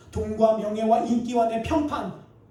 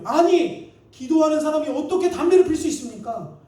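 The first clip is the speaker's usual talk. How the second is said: louder, higher outburst of a scolding rabbi; angry rebuke; 5 semitones higher, 8 dB louder than usual. Retold or imitated. Rabbi scolding the smoker who asks about prayer, hammed-up anger. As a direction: snap back like an outraged teacher. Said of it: "랍비가 버럭 화를 내면서".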